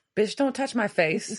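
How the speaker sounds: normal talking voice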